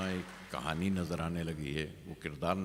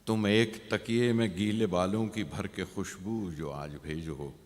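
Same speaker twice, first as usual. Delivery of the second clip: poem recitation; 3 dB louder than usual. Acted. Poet asks the beloved for a scented pillow, measured recitation. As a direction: recite it and let the last phrase drop.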